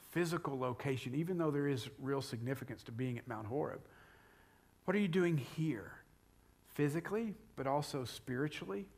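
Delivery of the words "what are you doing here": "here" lengthened with a falling tune; stress on HERE. Shown as a demonstration. Preacher asking about physical and spiritual place, stress on HERE. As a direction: let the question land on "here". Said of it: "The question of location".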